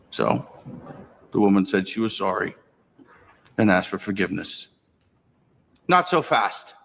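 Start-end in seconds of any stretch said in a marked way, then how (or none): 5.9-6.8 stern priest. Acted. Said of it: "says O'Rourke".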